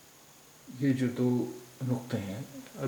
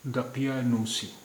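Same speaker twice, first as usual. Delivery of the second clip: slow falling model; slower than usual. Shown as a demonstration. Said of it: "अब ये शब्द है".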